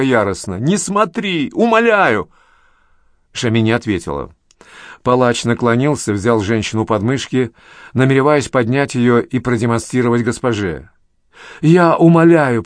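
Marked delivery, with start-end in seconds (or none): 0.6-2.3 high wailing plea, voice rising; a high sobbing cry for mercy. A narrator's reading. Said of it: "Она разрыдалась, завыла громко". 11.6-12.6 loud, slow, high begging; a loud drawn-out beg; desperate plea. A narrator's reading. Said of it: "продолжала взывать Гула".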